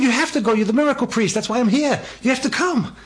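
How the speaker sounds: high, pressing insistence; insistent plea. Retold or imitated. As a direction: push him hard, you need him. Insisting the priest must come.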